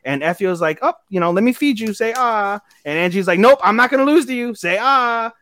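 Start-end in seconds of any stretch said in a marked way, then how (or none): 0.8-2.6 put-on higher-pitched, coaxing girl voice; mock coy feeding. Girl feeding her date pastries, high and coaxing. 3.4-5.3 high, quick, loud rival voice; mock competitive girl. Rival girl competing to feed him, high and insistent.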